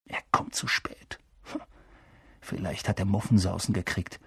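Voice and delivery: hushed, breathy whisper. A narrator's reading. Ron to Harry, waiting for the rival, whispering. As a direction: whisper it while lying in wait. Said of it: "flüsterte Ron".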